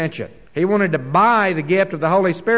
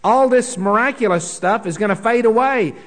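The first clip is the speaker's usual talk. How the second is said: Paul paraphrased with raised rebuking voice; mock rebuke from Paul; 5 semitones higher than usual. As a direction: scold them as Paul would, rising up. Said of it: "And he says".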